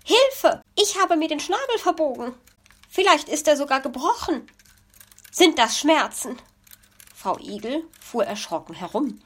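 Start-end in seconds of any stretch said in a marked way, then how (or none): 0.0-6.4 high, fast panicky magpie; much higher, fast alarmed wail; wailing in pain. Acted. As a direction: dramatize the bent beak. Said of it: "der jammernden Verletzten".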